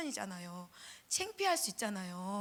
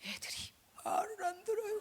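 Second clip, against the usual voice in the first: retold crying complaint; 8 semitones higher than usual. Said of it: "와서 우는 거예요".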